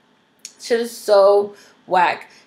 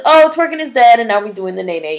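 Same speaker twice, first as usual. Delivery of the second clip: mocking a pop singer; 5 dB louder than usual. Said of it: "she turns around and says".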